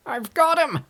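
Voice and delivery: high, loud scream of triumph; triumphant scream. A narrator's reading. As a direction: scream it out while grappling. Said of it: "screamed Kemp".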